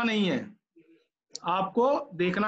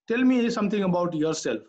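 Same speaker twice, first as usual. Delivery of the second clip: slow interviewer question; much slower than usual. Retold or imitated. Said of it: "जब मुझसे कोई interviewer पूछेगा".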